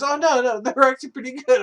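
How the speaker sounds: a hammed-up girlfriend defending the sprouts; mock girlfriend voice. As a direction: play the girlfriend, high and insistent. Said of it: "So she goes".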